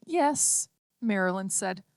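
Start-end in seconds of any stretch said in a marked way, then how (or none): 0.1-0.7 strangled cry. A narrator's reading. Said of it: "her voice strangled and hoarse".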